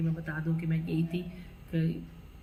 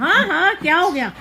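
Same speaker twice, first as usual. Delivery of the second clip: real laughter; 10 semitones higher, 9 dB louder than usual. Real, not acted. Breaking into laughter mid-story.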